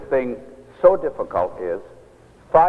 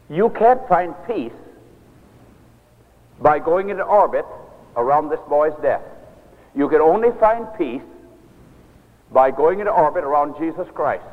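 firm exhortation; 2 semitones higher than usual. Retold or imitated. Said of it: "but she was firm".

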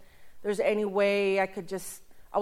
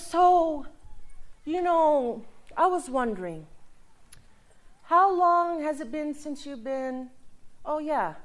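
sweet church lady; 5 semitones higher than usual. Retold or imitated. Lady questions him, voiced.

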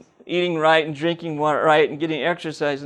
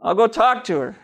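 loud, high, fed-up okay; exasperated giving in; 4 semitones higher, 4 dB louder than usual. Retold or imitated. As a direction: throw up your hands and agree. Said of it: "I got upset and I said".

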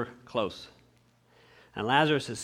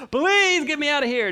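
higher, louder pleading; mock desperate plea; 9 semitones higher, 4 dB louder than usual. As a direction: beg to be pulled out. Pleading from hell.

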